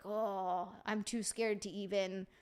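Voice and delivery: soft, slow, mock-timid voice; imitating a daunted young guy; intimidated young guy. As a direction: act too shy to approach her, softly. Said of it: "a young guy would be like".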